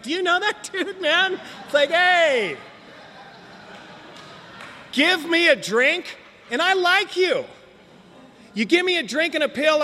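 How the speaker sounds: put-on high, loose drunk rambling; drunk guy. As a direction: ham up a friendly drunk begging for drinks. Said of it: "I'm a visiting drunk guy".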